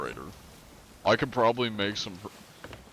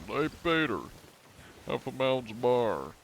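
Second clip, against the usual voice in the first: Joe Swanson; 3 semitones higher than usual. Acted. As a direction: call out in a raised, put-on character voice. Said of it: "Joe Swanson".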